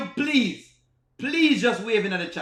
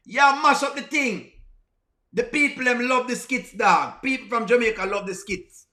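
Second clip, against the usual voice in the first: broad, emphatic Jamaican Patois; punchy Jamaican street talk; Jamaican accent; 3 semitones higher than usual. Shown as a demonstration. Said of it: "I talk to you in my Jamaican accent first".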